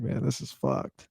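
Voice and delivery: a lightly voiced kid, softly muttering; glum kid. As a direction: sound like a kid who gave up. Voicing a kid watching the pandemic.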